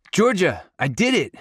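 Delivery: put-on high-pitched little boy calling out; excited child's shriek. A narrator's reading. Youngest son running to Georgia on the porch, shrieking. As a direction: squeal the news with pride. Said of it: "Ace shrieks".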